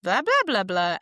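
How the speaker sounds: playful imitated babble; mock foreign chatter. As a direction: imitate chatter with nonsense syllables. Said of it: "And she's like".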